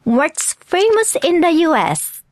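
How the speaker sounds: very slow English model phrase; drawn-out phrase for repeating; repeat-after-me model. Shown as a demonstration. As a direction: lead learners through it slowly. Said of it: "Repeat after me".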